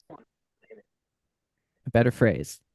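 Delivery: low, very slow mock-grand voice; mock Shakespeare. Host asks the player for a phrase, pompous mock bard. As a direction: drag it out like a pompous old bard. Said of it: "I'm trying to sound like Shakespeare".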